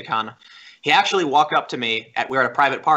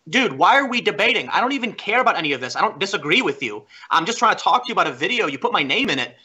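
higher, swooping protest; retold exasperated plea; 5 semitones higher than usual. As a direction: plead your case in exasperation. Acted exasperated plea in the quarrel.

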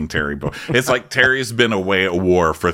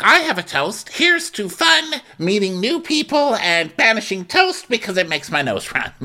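mock toast; 12 semitones higher than usual. Imitating Shannon raising a toast. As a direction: gush it like a tipsy host.

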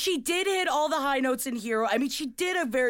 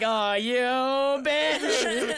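very slow, stretched-out mock diva line; mock diva drawl; much slower than usual. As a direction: drag it out like a diva. Imitating a pop diva on Instagram.

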